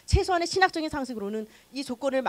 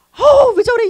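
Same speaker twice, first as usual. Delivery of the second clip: loud, higher exasperated groan; irritated groan; 11 semitones higher, 14 dB louder, slower than usual. Retold or imitated. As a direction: let the irritation burst out. Annoyed at stranger. (짜증 섞인 큰 탄식)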